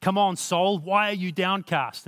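rally yourself like a coach; self-encouraging pep talk. Retold or imitated. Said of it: "he's encouraging himself".

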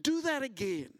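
high, slow pleading; pleading cry. Retold or imitated. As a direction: beg God earnestly, drawing it out. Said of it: "they're crying out".

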